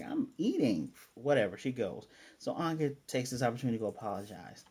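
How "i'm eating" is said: annoyed, higher-pitched protest; mildly indignant retelling of a character; mad. Retold or imitated. Becky grumbling at being called away mid-meal, mad. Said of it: "and she's mad".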